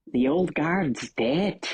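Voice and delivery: slow, lilting Belfast tough; a hint of a Northern Irish hard man; Northern Irish IRA guy. IRA man rallying his cell, Belfast accent. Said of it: "this is an I R A guy".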